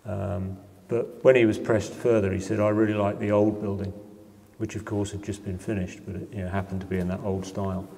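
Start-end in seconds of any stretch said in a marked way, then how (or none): 2.6-3.9 a light imitated Birmingham accent. Pressed by the interviewer, the local man answers in a light Birmingham accent. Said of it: "and I will do the accent now".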